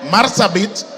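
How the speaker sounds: calling names over noise; loud roll call. Real, not acted. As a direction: project the name across the hall.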